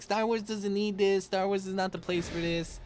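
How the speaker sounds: high, whiny mock voice of an offended fan; mocking outraged fan. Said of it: "being like".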